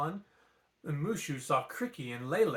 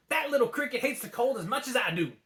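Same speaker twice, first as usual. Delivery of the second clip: softening dragon; 8 semitones higher, 3 dB louder, faster than usual. A narrator's reading. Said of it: "said Mushu, softening".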